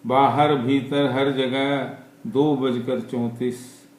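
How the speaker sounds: measured recital in short, paused phrases; poem recitation. Acted. Poet reciting to listeners about a stopped clock, poem recitation. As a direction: recite free verse line by line, letting each phrase land.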